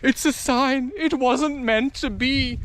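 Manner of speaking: lightly put-on high voice; mock superstitious thinking. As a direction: imitate people resigning themselves to a sign. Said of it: "that's how people think".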